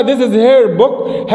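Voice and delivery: very slow drawn-out teacher model; slow model sentence. Shown as a demonstration. Teacher recapping the example slowly. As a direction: read it word by word. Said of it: "يعني اقول هذا كتابها".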